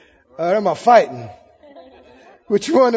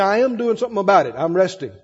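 calm retort; 4 semitones lower, faster than usual. Acted. Calm answer back to nagging devil.

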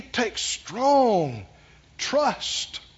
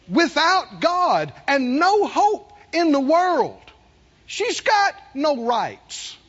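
emphatic preaching; 6 semitones higher, 3 dB louder than usual. Real, not acted. Preaches to congregation with raised voice.

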